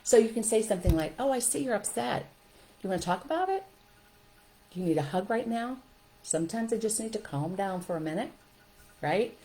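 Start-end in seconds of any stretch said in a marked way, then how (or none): 1.2-5.8 gentle concern. Shown as a demonstration. Teacher offering an upset child a hug, gently concerned.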